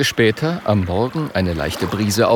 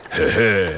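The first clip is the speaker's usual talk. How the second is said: smug chuckle; 2 semitones lower than usual. Acted. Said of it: "grinst Björn".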